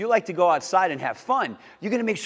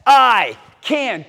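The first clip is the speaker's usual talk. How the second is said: quick, loud shout; faster and louder; 5 semitones higher, 7 dB louder, much slower than usual. Shown as a demonstration. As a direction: fire it back quickly and loudly. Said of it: "Even faster now".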